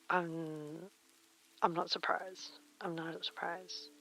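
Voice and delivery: soft unvoiced whisper. Real, not acted. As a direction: whisper it under your breath. Quiet aside after meeting remark.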